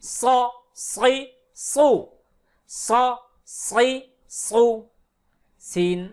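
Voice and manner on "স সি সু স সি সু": "স, সি, সু" with heavy emphatic Arabic s; thick sad. Shown as a demonstration. Teacher demonstrates sad in thick sound, emphatic pronunciation. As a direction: thicken the s and darken the vowels in "স, সি, সু". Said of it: "সদ মোটা আওয়াজে".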